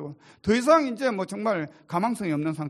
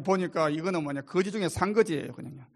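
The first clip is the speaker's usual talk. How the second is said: normal talking voice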